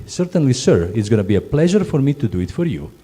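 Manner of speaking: fast, eager courteous reply; eagerly please the guest. Shown as a demonstration. Crew member answers guest, eager and courteous. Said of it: "How are we gonna say?".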